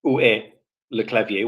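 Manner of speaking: où est le clavier in a native French accent; French example, lightly spoken; French phrase. Shown as a demonstration. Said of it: "as in".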